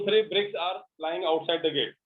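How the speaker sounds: very slow, word by word; slow example sentence. Shown as a demonstration. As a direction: read the example slowly. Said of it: "teacher gives example slowly". (धीमा उदाहरण वाक्य)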